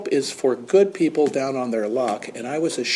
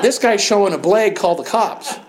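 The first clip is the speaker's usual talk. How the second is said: retold shout; 8 semitones higher, 4 dB louder than usual.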